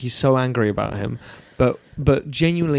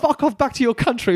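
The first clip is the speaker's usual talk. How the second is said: mock annoyance; 10 semitones higher than usual. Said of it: "is what I thought".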